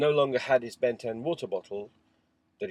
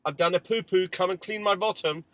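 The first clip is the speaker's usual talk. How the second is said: put-on child; 9 semitones higher, 9 dB louder than usual. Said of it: "he says".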